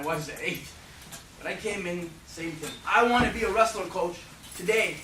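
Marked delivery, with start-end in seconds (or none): 2.9-5.0 loud, eager plea, a bit higher; eager kid. Retold or imitated. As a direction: beg the coach at full voice. Kid begging coach to wrestle.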